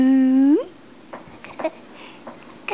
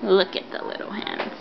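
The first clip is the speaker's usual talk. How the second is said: whispering; 9 semitones lower, 8 dB quieter than usual. Real, not acted. Mother admiring the baby softly.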